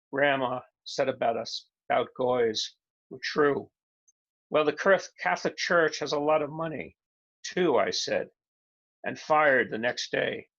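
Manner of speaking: emphatic poem reading in short phrases; declaimed verse with pauses at line breaks; poetry reading. Acted. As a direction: read the poem out, landing each image. Reads second poem aloud.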